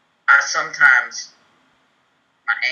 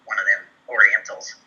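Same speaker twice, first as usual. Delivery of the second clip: hammed-up fake Southern accent; bad fake Southern accent. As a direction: play a questioner with a phony Southern accent. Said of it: "in my fake accent".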